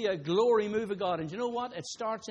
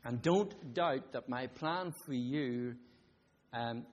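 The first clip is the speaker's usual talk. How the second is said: God slow and gentle; 4 semitones lower, slower than usual. Retold or imitated. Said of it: "And then God says".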